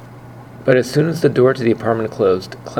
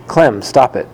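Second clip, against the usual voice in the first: louder, firm command to the dog; girl scolding her dog, firm and louder; firm shout; 5 dB louder than usual. Acted. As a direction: stop the dog cold, louder. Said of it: "she shouted in a very firm voice".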